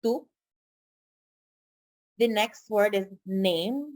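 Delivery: ordinary talk, nothing marked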